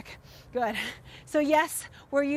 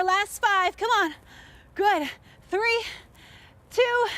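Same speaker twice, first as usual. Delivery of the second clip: higher, louder coach countdown; hyped coaching; 6 semitones higher, 3 dB louder, slower than usual. Real, not acted. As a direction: pump up the class to finish. Coach hyping final reps.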